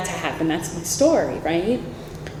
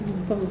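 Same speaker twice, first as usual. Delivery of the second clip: imitated heartbeat drum; 10 dB quieter than usual. Speaker showing how the drum mimics footsteps, softly imitated beat. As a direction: mimic a heartbeat with quiet booms. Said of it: "it mimics our heart".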